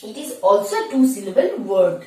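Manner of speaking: slow, deliberate explaining; careful slow classroom English; slow teaching read. Shown as a demonstration. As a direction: lay it out word by word. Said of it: "because L is silent in yolk".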